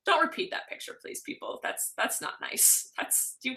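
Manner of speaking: whispered gentle scolding; whispering. Real, not acted. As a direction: hush it as a scold. Scolding viewers after shock.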